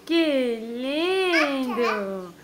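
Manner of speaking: slow, tender, tearful praise; moved almost to tears; teary. Real, not acted. Mother moved, voice crying.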